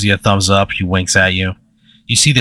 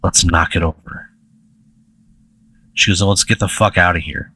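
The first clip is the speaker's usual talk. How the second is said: mischievous quote; 4 semitones lower, 3 dB quieter than usual. Retold or imitated. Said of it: "little devil in her eye".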